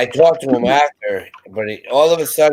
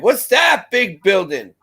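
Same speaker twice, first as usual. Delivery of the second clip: higher, drawn-out tourist wonder; retold wide-eyed question; 7 semitones higher than usual. Passengers asking about the raceway they pass, imitated wonder. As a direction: ask it slowly with mock amazement. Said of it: "everybody's like".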